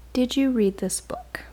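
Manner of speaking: softly whispered question, imitating the teacher; teacher whispering a pointed question; teacher's whisper. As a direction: whisper it like a teacher catching you out. Teacher calls her up privately.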